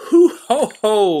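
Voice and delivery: loud, high hearty ho ho laugh; old fireman laughing off the chief's warning. Acted. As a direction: laugh off the danger boldly. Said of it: "laughed Old Jeff".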